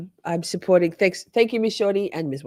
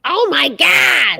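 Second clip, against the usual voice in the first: slow, high, loud gasp of shock; drawn out in disbelief; 10 semitones higher, 7 dB louder, much slower than usual. Real, not acted. Shocked by a vote.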